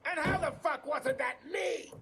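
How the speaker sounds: high, indignant yell; angry shout. Acted. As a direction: demand an answer, shouting. Boss yells at subordinates.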